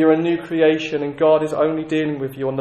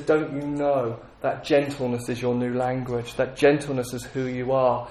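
gentle voice of God; 2 semitones lower, 3 dB quieter than usual. Retold or imitated. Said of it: "He says".

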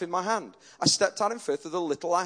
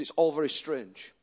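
quiet awe; 6 semitones lower, 6 dB quieter than usual. Retold or imitated. Retold gym man, quiet awe.

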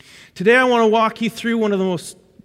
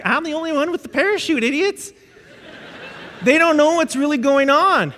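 higher, fast, lightly mocking; smug passenger; 7 semitones higher than usual. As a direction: brush off the mockers, pleased.

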